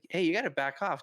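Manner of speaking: lightly imitated high-pitched boxer voice; a hint of high voice, warning someone away; Mike Tyson. Wyatt to the man confronting him, light Mike Tyson voice. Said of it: "in his Mike Tyson voice".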